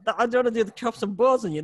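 high mock-scared volunteer voice; reluctant volunteer. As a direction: squeal like a nervous audience member. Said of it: "I'm getting in character".

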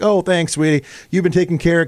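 super sweet grandma. Retold or imitated. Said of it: "so she's being super sweet".

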